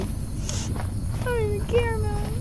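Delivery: high, slow falsetto whine; mock squeaky voice. Gamer mocking in a high pitch.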